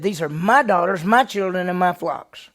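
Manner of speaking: loud, punching each "my"; mad Laban. Retold or imitated. Laban mad at Jacob, loud with each "my" stressed. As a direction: hit every "my" loud, stubbornly claiming.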